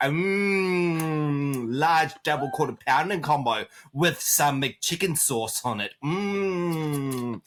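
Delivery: savoring mmm. Pretend. Savoring burger in front of haters.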